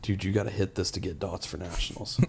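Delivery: close-up hushed half-whisper, as if in the ear. Retelling leaning into someone's ear before their third deadlift: imitating a half-whisper. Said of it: "lean in your ear and I whisper".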